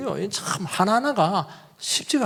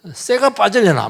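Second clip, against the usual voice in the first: mother's scolding; 7 semitones higher, 5 dB louder than usual. Retold or imitated. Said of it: "우리 어머니 뭐".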